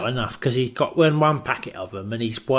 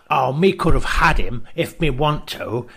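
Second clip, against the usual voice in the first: broken English Kim; 4 dB louder than usual. Retold or imitated. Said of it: "And then he says".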